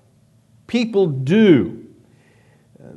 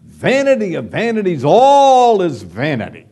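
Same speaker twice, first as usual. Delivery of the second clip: dramatic proclamation; 4 dB louder than usual. Retold or imitated. Preacher dramatically quoting the verse to his congregation, declaiming. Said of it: "He dramatically says".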